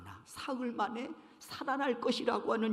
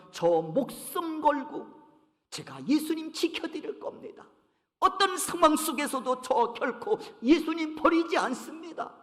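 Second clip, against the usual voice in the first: boasting; 2 semitones higher than usual. Retold or imitated. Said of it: "호언장담을 합니다".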